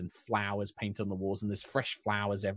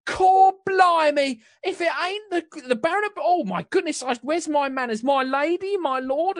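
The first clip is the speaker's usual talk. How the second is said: high, loud Cockney flustered greeting; cockney baker woman; 9 dB louder than usual. Acted. Flustered Cockney baker greets lord and lady, high and loud. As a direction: gush in a Cockney accent at the nobles. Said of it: "I'm gonna lose all my accents".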